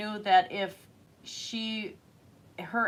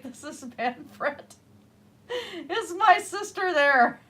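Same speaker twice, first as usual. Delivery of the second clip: put-on Manfred's thick German accent, half-laughing, rising loud at the end; lightly mocking a German uncle's heavy accent; 9 semitones higher, 7 dB louder, slower than usual. Niece imitating uncle Manfred on the phone, German accent. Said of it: "his accent got thicker".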